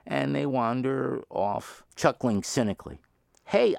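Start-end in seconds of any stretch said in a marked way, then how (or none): 3.4-3.7 calling out. Retold or imitated. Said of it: "I call out".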